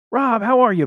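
high, loud glad-handing; oily salesman welcome; schmoozing neighbor greets loudly; smarmy host. A narrator's reading.

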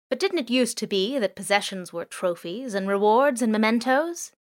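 lightly voiced drone. Drone muses on possessions.

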